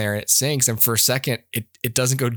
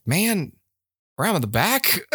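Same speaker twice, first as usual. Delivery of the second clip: high-pitched incredulous heckle; exasperated movie-watcher's protest; mock exasperation; 6 semitones higher, slower than usual. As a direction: heckle him in mild disbelief. Heckles the film killer's careless driving.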